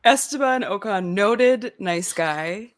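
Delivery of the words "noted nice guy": slow deadpan sarcasm. Acted. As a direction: drawl the fake praise. Sarcastic roast of Ocon.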